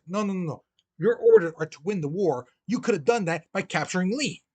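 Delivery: insistent, mildly angry correction; retold fury. Lincoln overruling his general's excuse, acted exasperated scolding. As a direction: cut in and drive the orders home. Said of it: "He was so furious, angry".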